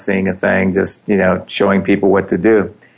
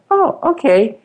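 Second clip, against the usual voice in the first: high, startled oh, okay; surprised oh. Retold or imitated. Caught off guard by the client's remark, surprised. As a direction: let the oh jump way up in surprise. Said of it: "And I went".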